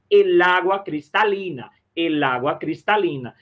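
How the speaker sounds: "el agua cristalina" with "el agua" linked as "e-lagua"; one voice impulse. Shown as a demonstration. Teacher modelling for students, "el agua" in a single impulse. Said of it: "vai pronunciar num só impulso de voz".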